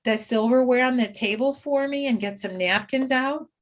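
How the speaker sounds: light, cheerful asking voice; friendly redirect. Shown as a demonstration. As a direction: invite the client into a small task, kindly.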